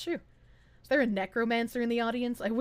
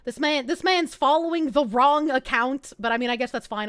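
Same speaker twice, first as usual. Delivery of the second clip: normal talking voice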